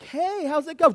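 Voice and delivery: high, loud cheerful greeting over noise; calling over chaos. Retold or imitated. Dad greeting his girls over household chaos, loud and high. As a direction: call out brightly over the din.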